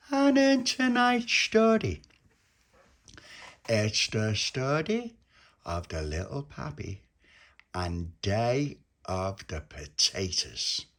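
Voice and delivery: grand announcer voice for the story; show announcer. Acted. Opening the bedtime show.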